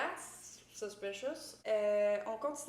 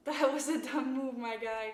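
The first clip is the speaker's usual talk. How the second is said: teasing laugh; 3 semitones higher, 6 dB louder than usual. Retold or imitated. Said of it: "Ça fait rire Lily".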